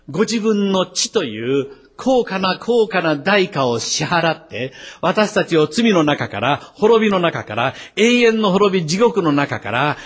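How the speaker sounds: fervent preaching, building in pitch; emphatic preaching. Real, not acted. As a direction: preach it, pressing harder on each phrase. Preacher driving the point home.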